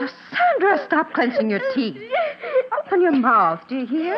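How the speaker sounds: firm, commanding mother, losing patience; stern scolding. Acted. Mother forces medicine into daughter's mouth, stern. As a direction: order the child to open up, no argument.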